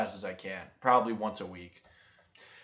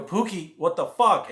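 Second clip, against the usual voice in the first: shocked exclamation; 6 semitones higher, 5 dB louder than usual. Retold or imitated. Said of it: "And I go".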